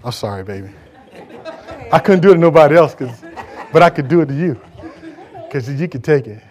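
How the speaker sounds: chuckling through the words; amused, laughing aside to a friend; laughing apology. Real, not acted. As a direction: tease them while laughing. Teasing laughter at a listener.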